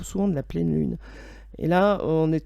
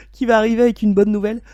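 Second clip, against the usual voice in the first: speaking through a coming sneeze; about to sneeze; 3 semitones higher, 7 dB louder, faster than usual. Real, not acted. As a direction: sneeze building mid-sentence. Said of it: "je vais éternuer".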